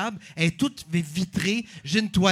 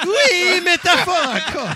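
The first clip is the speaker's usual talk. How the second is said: rire enjoué; 10 semitones higher, 7 dB louder, slower than usual. Real, not acted. Rit avec l'animateur.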